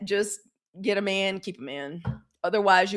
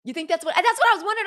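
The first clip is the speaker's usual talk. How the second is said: high incredulous; 10 semitones higher, 6 dB louder, much faster than usual. Real, not acted. Excited rant.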